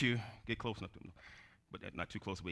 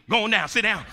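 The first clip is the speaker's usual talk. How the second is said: ordinary delivery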